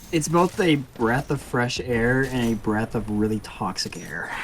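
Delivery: laughing. Real, not acted. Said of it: "That's such a way to put it".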